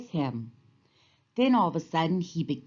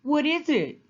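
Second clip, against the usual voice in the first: smiling; 10 semitones higher, 3 dB louder than usual. A narrator's reading. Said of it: "smiled Moose".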